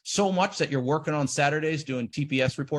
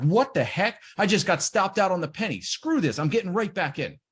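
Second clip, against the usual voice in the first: frustrated trader; 6 semitones higher than usual. Retold or imitated. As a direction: play the trader who just got shaken out, annoyed. Acting out frustrated stopped-out trader.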